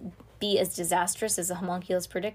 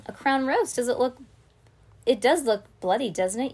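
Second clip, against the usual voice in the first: taunting villain; 5 semitones higher, 6 dB louder than usual. Acted.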